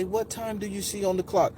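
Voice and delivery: soft, gentle questioning; smooth woman's voice. Retold or imitated. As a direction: imitate a soothing guide asking softly. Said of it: "it was just the smoothest".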